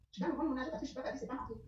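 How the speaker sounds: ordinary talk, nothing marked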